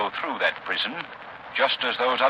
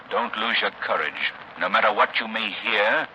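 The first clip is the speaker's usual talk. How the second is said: drawn out, very slow at the end; ominous warning; slower than usual. Acted. Man warning his companion before entering the prison, slow and ominous. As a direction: stretch the last phrase portentously.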